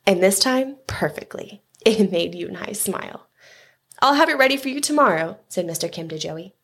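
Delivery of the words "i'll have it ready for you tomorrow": shopkeeper's line. A narrator's reading. Shopkeeper voiced to customer.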